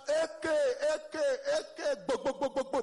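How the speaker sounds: loud mock greeting shout with gun sounds. Nigerian friends greeting each other across London, shouting. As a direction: bellow it across the street like gunfire. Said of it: "we dey shout".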